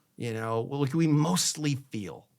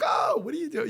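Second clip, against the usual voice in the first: imitating mom; 12 semitones higher than usual. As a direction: call out like a surprised mom. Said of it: "she'd be like".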